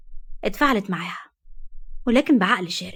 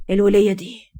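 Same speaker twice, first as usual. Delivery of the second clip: muttered resentment; 4 dB louder than usual. Acted. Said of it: "على اثرها بغيظ".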